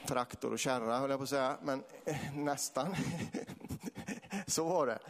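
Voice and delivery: normal talking voice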